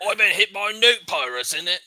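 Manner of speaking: thick British, swallowing the consonants in "newt pirates"; thick British accent. Acted. NPC tells the party who attacked him, thick British accent. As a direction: mumble "innit" like a thick British local. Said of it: "Very thickly and Britishly".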